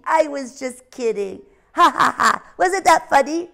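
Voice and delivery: a sly little owl cackling Ha, ha, ha; cheeky owl laughing. Acted. Ozzie laughs off his trick.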